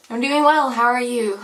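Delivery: bright, put-on customer-service voice; fake cheerful. Her own routine fake-cheerful reply.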